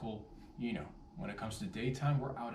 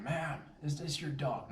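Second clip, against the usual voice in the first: 1 polite question; 4 semitones higher than usual. Retold or imitated. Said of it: "I'm asking".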